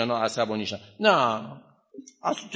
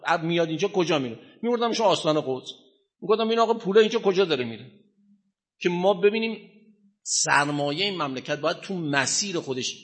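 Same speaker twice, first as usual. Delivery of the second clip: higher and fast, half-joking plea; hammed-up plea to the jinn, higher and rushed; mock pleading; 4 semitones higher than usual. Teacher imagining ordering jinn around, mock urgent. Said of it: "میگفتم".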